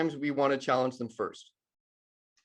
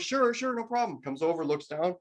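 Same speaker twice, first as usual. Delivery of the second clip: higher, breezy know-it-all who rattles off advice; chirpy engineer; 4 semitones higher than usual. Retold or imitated. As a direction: toss off quick instructions, then a cheery goodbye. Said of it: "the engineer goes".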